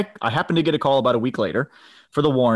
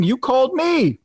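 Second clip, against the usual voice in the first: gotcha punchline; 11 semitones higher, slower than usual. Retold or imitated. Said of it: "And I said".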